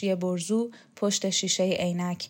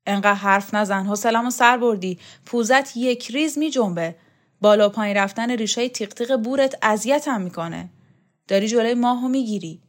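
put-on louder, gruff old champion; Shokat's voice; 2 semitones higher, 5 dB louder than usual. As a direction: brush the boy off, irritated.

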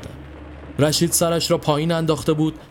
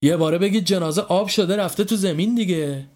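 exasperated; 4 semitones higher than usual. Acted. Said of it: "با کلافگی گفت".

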